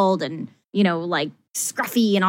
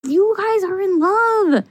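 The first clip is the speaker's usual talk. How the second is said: exasperated disbelief; 10 semitones higher than usual. Real, not acted. Exasperated fan yelling at the show.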